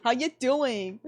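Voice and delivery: playful, mild put-on hello; toned-down greeting. Redoes greeting after odd voice.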